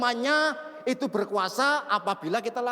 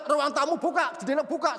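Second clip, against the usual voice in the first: ordinary delivery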